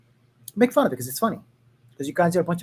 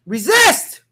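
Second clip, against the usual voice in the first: mock rallying cry; 7 semitones higher, 9 dB louder than usual. Mock rallying cry ending parody.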